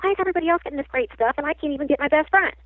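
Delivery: re-enacting an aggrieved protest; retold exasperated complaint. Retelling her complaint about mediumship.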